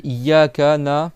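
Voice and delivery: IYYAKA NA slow and loud, halting after "na"; word cut short. Shown as a demonstration. Teacher imitates a reciter wrongly splitting, halted mid-word. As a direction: break off na'budu after its first syllable. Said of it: "après plus loin".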